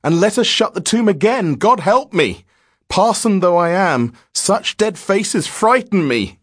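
high, loud, frightened pleading; panicked, high-pitched outcry; horrified gasping. Acted. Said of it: "gasped Grant".

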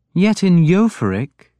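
a mild probe; mildly. A narrator's reading. King Alfred mildly pressing Uhtred about the rumour. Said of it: "Alfred went on mildly".

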